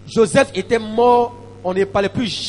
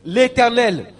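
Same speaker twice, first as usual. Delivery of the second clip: raised, declamatory reading of a decree; proclaimed scripture reading; 3 semitones higher, 7 dB louder than usual. Acted. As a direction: read it out like a preacher.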